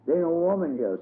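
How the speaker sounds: put-on a little girl clutching the puppy, objecting; little girl objecting to old Mammy; child voice. A narrator's reading. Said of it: "said Dumps".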